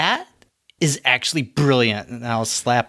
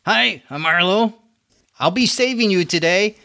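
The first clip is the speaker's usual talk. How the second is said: charming rescuer voice; 8 semitones higher than usual. Acted. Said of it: "looks over to the librarian and goes".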